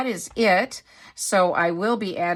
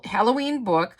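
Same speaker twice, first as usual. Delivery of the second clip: slightly British-sounding "Halloween book", pitched up; 4 semitones higher than usual. Real, not acted. Reading the box to viewers, accidentally British-sounding. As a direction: let "Halloween book" slip into a British lilt. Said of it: "I was sounding so British".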